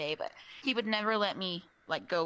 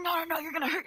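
high, hurried-sounding mock protest; imitating worried coworker; 8 semitones higher, faster than usual. Retold coworker runs over to stop her.

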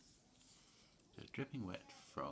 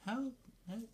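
crying for help; 5 dB louder than usual. Acted. Witch cries out as broom breaks.

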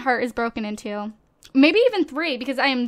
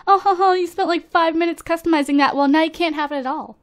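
mocking the game; 3 semitones higher, 3 dB louder, faster than usual. Voicing the game taunting her over her lost build. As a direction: sneer it like a smug villain. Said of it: "It's like".

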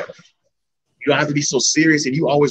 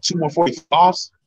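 slow, questioning disbelief; retold disbelief, rising at the end; incredulous; slower than usual. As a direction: draw it out as a doubtful question.

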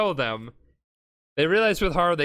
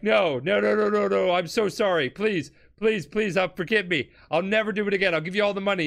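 higher-pitched run of begging; mock panicked pleading; 4 semitones higher than usual. Villain begging Jotaro for forgiveness, mock panicked pleading. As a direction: beg in an imitated panic. Villain begs for his life.

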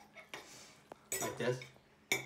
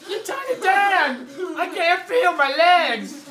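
laughing; 5 semitones higher than usual. Real, not acted. Laughing through pasta mishap.

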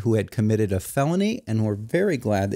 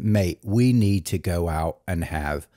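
Pete's late-night call in a lower, hammed-up British accent; mock British accent; 7 semitones lower than usual. The speaker retells Pete's late-night phone call in mock British accent. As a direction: drop your voice and put on a silly British accent. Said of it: "he didn't have a British dialect".

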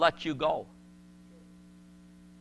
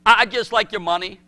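mock fiancée; 5 dB louder than usual. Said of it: "And she said".

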